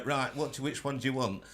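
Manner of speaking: put-on light northern English accent; a hint of a Yorkshire accent. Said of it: "I don't know why I did it in a northern accent".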